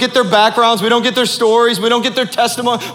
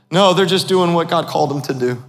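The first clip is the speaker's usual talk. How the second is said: calm reassurance; 3 semitones lower than usual. Retold or imitated. Charles's calm answer to her.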